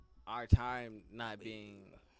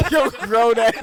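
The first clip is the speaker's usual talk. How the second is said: loud teasing; 10 semitones higher, 20 dB louder than usual. Acted. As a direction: drag it out, laughing loud. Teasing a four-year-old.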